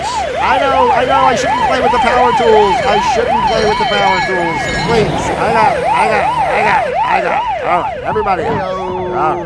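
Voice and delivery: very high, loud, squeaky chipmunk voice; squeaky cartoon voice. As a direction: squeal it like a cartoon critter who got hurt. Cartoon voice after power tools.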